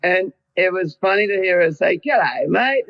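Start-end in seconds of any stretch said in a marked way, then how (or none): 2.0-2.9 imitating Kylie Australian. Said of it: "in an Australian accent".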